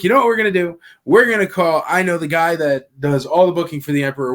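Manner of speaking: retelling a buddy's eager late-night scheme; excited pitch. Retold or imitated. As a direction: sell the late-night idea with a rush of excitement. Daniel Logan pitching a late-night idea.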